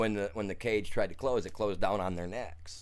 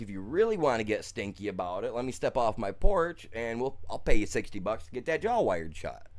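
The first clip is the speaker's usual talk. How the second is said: louder, confrontational retelling of a threat; retold threat; 5 dB louder than usual. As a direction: square up to him, voice rising. Retells threatening the neighbor in an argument.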